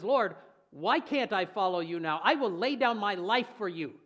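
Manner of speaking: loud, bold vow to his Lord; a brash disciple's confident promise; bold bragging Peter. Retold or imitated. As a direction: declare it proudly for all to hear. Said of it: "the word braggart".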